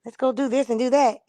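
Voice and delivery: lightly voiced Aries calling the Gemini to have fun; mock eager Aries. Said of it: "Aries like".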